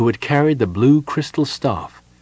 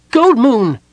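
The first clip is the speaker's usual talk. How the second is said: high, loud kender shout; calling out; 9 dB louder than usual. A narrator's reading. Tass knocks again and calls his friend, shouting. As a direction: shout the name high through a door. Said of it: "He knocked again on the door".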